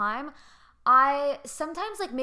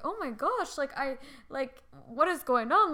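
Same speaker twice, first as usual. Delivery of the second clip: mock bewilderment; 3 semitones higher than usual. Acted startled reaction to the yelling.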